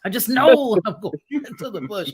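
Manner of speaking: a laugh breaking into the repeat. Real, not acted. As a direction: chuckle through it at yourself. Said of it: "repeated with laugh".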